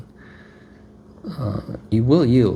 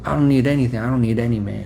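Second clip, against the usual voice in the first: mildly acted proud dismissal; haughty refusal; 2 semitones higher, 3 dB louder, faster than usual. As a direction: push help away with a touch of mock pride. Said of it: "proud and haughty".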